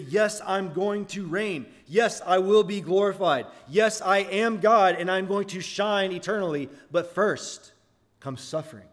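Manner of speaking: a touch of Jesus declaring his glory, slow at first; voicing Jesus. Preacher voicing Jesus to the congregation, mildly proclaiming.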